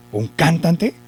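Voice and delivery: doubting question with "cantante" stressed on its first syllable; stress on CAN. Shown as a demonstration. Teacher asks if that sounds right, stress on CAN in "cantante". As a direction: ask it as CÁN-tante, "cantante" hit at the start. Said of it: "que lo lleva en can".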